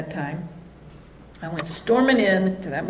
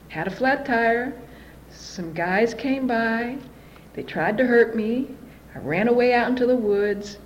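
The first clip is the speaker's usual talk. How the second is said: slow, halting recital with pauses; feed it out bit by bit, drawn out; telling a sob story; 3 dB quieter, slower than usual. Retold or imitated. Daughter telling mother some guys came by, slow halting delivery. Retells her made-up victim story.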